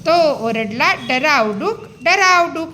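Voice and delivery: put-on slow, rhythmic reading of a children's poem; poem recitation. Shown as a demonstration. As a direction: recite it for little kids, sounds drawn out. (मुलांसाठी तालात कविता वाचन)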